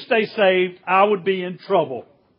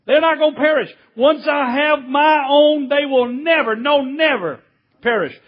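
raised pitch, insisting on "never, no, never"; perfectly clear, emphatic; 4 semitones higher than usual. Retold or imitated. Preacher voicing Jesus making it clear, emphatic "no, never". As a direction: hold "never, no, never" up high, then drop on "perish". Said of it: "wants to make it perfectly clear".

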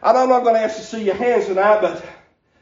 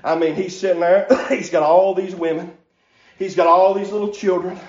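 preaching at full force; 3 semitones higher than usual. Acted. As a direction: whoop it up like a revival preacher, breath punching every line. Preacher builds into chanted preaching.

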